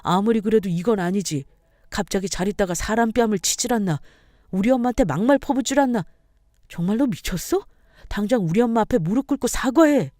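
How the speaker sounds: lightly acted husband, indignant; a touch of outraged demand; angry husband. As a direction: confront your wife in defence of your mother.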